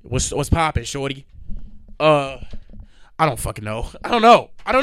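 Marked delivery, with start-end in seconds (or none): 0.0-1.3 mock smooth talker. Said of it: "What do you want me to do?".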